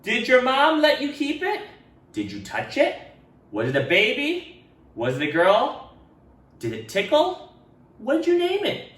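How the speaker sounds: high, eager quick questions; eager kids. Acted. Classmates asking Ralph about the inchworm, eager. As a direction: fire questions excitedly.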